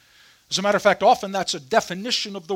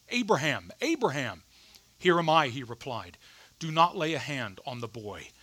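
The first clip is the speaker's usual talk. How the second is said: measured Bible reading, lightly softened; scripture reading; 3 semitones lower, 4 dB quieter than usual. A narrator's reading. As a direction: read scripture aloud to a congregation, lower toward phrase ends. Reads Bible passage aloud.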